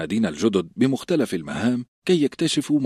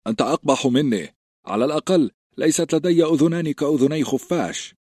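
a hint of a mocking shout, a bit higher; mocking retort; 7 semitones higher than usual. A narrator's reading. A recruit jeering back at his friend, lightly mocking. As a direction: jeer back at him, lightly voiced. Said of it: "صاح جيرن ساخرا".

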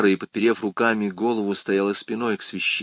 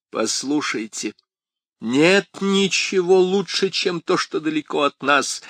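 вспышка, громче и выше; сорвись резко и громко; sudden outburst; 7 semitones higher, 3 dB louder than usual. A narrator's reading. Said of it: "неожиданно взорвалась Крис". (резкий срыв)

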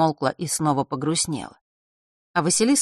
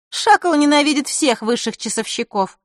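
put-on girl's voice; 9 semitones higher, 4 dB louder than usual. Zakharra voiced.

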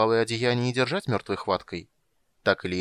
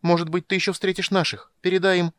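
high, louder hurried asking; eager plea; 9 semitones higher, 5 dB louder than usual. A narrator's reading. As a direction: beg him before he goes. Tika chasing the mage.

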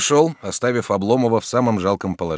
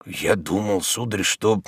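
trembling voice; slower than usual. Acted. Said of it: "дрожащим от душевной тревоги голосом".

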